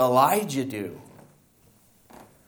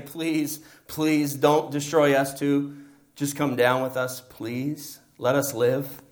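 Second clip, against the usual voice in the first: pleading for mercy; slower than usual. Acted. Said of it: "begging for their lives".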